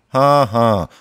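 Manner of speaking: sarcastic, humorless ha-ha; snorted mock laugh. Henry reacts to teasing about tiny beetles, snorting sarcastically. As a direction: fake a laugh to show you are not amused. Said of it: "schnaubte Henry".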